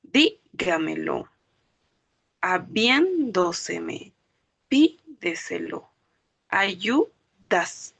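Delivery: "Dígamelo. Habiéndoseme. Pídeselo." slowly split after "Dí", "bién", "Pí"; fourth-from-last syllable stress. Shown as a demonstration. Teacher gives sobresdrújulas examples, slow split words with early stress. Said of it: "van a llevar el acento".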